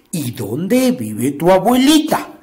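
lightly voiced slow wolf; a hint of a sly wolf. Wolf questions the girl.

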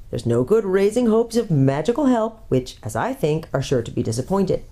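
a hint of a grumpy dwarf scoffing; scornful dwarf. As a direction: sceptical old dwarf brushing it all off. Red Dwarf voiced, scornful.

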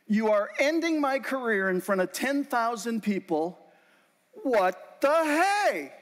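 rising despair, pleading upward, slow at the end; desperate plea to God. Retold or imitated. Speaker pleading with God during failed presentation, anguished. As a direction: beg God like your career is ending.

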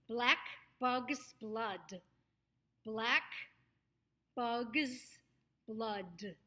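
BLACK ending on a sharp released K, then BUG'S BLOOD; clear K sound. Shown as a demonstration. Coach models for students, BLACK with a crisp K. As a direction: separate the words, clicking the K of BLACK. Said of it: "make sure you get that k sound".

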